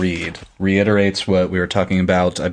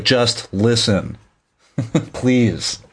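slow, higher plea broken by a laugh; mock pleading through laughter; 4 semitones higher, much slower than usual. Retelling Moiraine begging Rand to just listen, laughing. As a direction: beg her to listen while cracking up. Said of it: "She's like".

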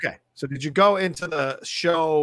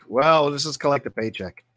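lazy cynical writers; 2 semitones lower than usual. Retold or imitated. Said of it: "they were just like".

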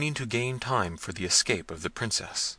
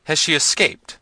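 high, loud urgent question; alarmed cry; 8 semitones higher, 8 dB louder than usual. A narrator's reading. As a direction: demand it loudly, voice rising in alarm. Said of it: "cried the prince".

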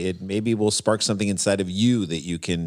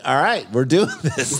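mock eager passenger; 6 semitones higher, slower than usual. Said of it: "people are gonna be like".

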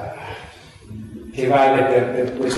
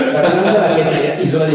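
laughing; 4 semitones higher, 4 dB louder than usual. Real, not acted. Joking banter, laughing.

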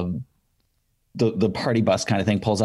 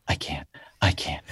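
much softer, lower panicked "I can't"; nervous refusal; 7 semitones lower, 7 dB quieter than usual. Retold or imitated. Starstruck fan refusing friends' push, low and soft. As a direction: shrink away and murmur it, low and soft. Too nervous to approach a singer.

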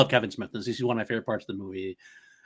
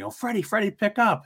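pleading quote; 9 semitones higher than usual. Retold or imitated. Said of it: "And he's like".

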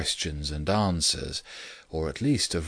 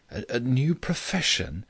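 vague; 6 semitones higher than usual. A narrator's reading. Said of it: "said ... vaguely".

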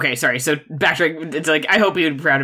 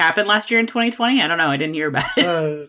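higher, fast mock-innocent question; fast, much higher fake-naive asking; feigned ignorance; 3 semitones higher, faster than usual. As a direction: play dumb about something everyone knows. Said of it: "the old feigned ignorance punchline".

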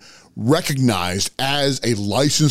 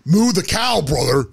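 outraged yell; 8 semitones higher, slower than usual. Acted. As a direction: blow up in disbelief at the rival. Outraged wrestler confronts rival.

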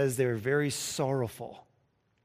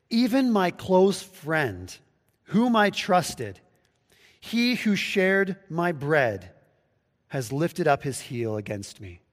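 slow, deliberate reading of a psalm; scripture reading; slower than usual. Shown as a demonstration. Preacher reading Psalm forty-one to the congregation, slow and solemn. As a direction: read each phrase slowly and solemnly.

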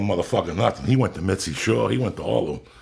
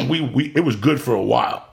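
mock tough talk; 6 semitones higher, 6 dB louder than usual. Retold confronting the manager.

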